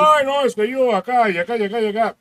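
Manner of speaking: high, put-on snooty voice; a hint of a stuck-up office worker; mocking snobby office workers. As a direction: mimic a posh show-off. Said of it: "como todos los mamones godines".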